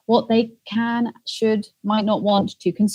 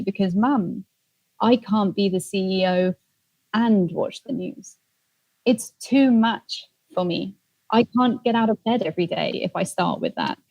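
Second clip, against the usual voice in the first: deliberate, spaced-out retold reply; very clear. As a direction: spell it out clearly for Mum. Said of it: "I said to her very clearly".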